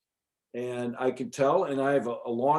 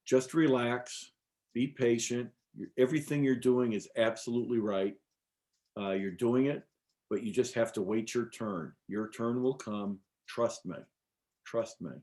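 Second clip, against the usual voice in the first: calm voice that grows softer toward the end; retold reassurance; 2 semitones lower, 4 dB quieter than usual. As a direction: gently settle an impatient seeker. Voices Mother Aya's reassuring reply.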